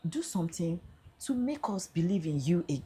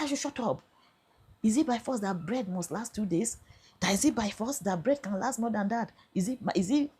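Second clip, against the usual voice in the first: raised, higher mock scolding; retold harsh scolding; 5 semitones higher than usual. Officer scolding her about the bread, a mock angry rebuke. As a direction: mimic the officer's hectoring pitch.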